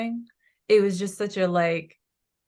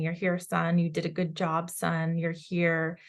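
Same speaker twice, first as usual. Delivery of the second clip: gentle fatherly voice. Retold or imitated. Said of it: "patting him on the back saying".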